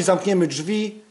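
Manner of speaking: normal talking voice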